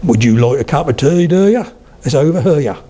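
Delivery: Suffolk lilt, jumping up on "do ya"; broad Suffolk, "tea" and "here" drawn round; Suffolk accent. Shown as a demonstration. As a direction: stretch "here" into two syllables, Suffolk style.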